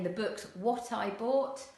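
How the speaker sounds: "The books what I bought" said casually; casual dialect, "what I bought"; non-standard English. Shown as a demonstration. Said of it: "you might hear someone saying".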